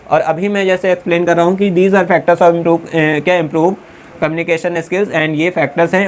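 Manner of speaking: lively, explaining to the class; engaged explaining tone. Shown as a demonstration. Teacher showing students the right explaining tone, engaged. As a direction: draw them in as you explain. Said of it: "तो मेरी tone देखिए".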